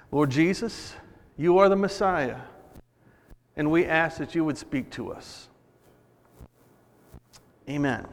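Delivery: quiet, unhurried spoken prayer. Real, not acted. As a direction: pray simply, with pauses, settling down into the amen. Prays aloud before the message.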